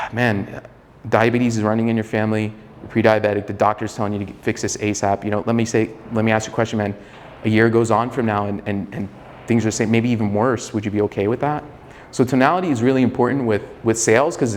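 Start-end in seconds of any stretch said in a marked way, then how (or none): 0.0-11.6 sigh, then ease into it with concern. Shown as a demonstration. Coach modelling a sales call to a pre-diabetic client, concerned. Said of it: "say it like a concerned tonality".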